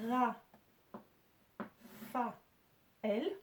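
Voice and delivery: Ra, Fa, El with long pauses between; each of Ra, Fa, El as its own separate syllable; split into syllables. Shown as a demonstration. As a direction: sound out Ra... Fa... El one beat at a time. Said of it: "première syllabe, deuxième syllabe, troisième syllabe".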